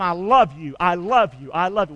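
tender demo. Shown as a demonstration. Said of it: "Tell 'em".

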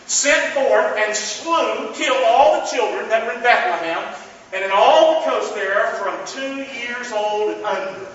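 slow, measured Bible reading; solemn pulpit reading, slowed right down; scripture reading. Acted. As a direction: read each word of the verse deliberately, slowly. Reads scripture slowly.

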